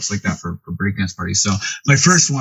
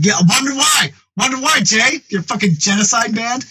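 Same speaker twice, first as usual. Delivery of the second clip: much higher, imitating a sarcastic jab; sarcastic needling of a friend over his band name; mock sarcasm; 13 semitones higher than usual. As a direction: tease him in a squeaky retold mocking tone. Retold sarcastic taunt.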